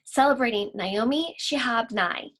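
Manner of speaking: slow, expressive poem reading; lingering poetry reading; poem recital. Acted. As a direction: read it out like a performed poem. Teacher recites poem to class.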